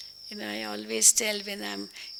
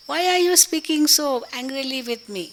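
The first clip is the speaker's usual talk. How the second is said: fast, raised angry demand for sweetness; speaking angrily; 4 semitones higher, 4 dB louder than usual. Retold or imitated. Speaker to angry person, a fast raised angry retort. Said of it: "But I'm speaking angrily more so".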